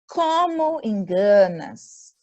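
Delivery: slow exclamative reading; exclaimed question. Shown as a demonstration. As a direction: read it as an exclamation. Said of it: "frase exclamativa".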